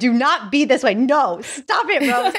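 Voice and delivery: mock telling-off of a TV character; playfully exasperated reprimand; upset scolding, retold. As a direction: plead and scold at once, half laughing by the end. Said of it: "I was so upset at her".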